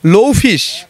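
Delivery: word said in reverse; backwards speech. Shown as a demonstration. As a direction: read the word backwards, syllable by syllable. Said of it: "এই লিখে রেখেছে".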